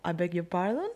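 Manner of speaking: quietly mocking a posh English voice; a light send-up of a posh Brit. Student imitates how the English say it, a mild posh mock. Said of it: "con ese tono de voz tan peculiar".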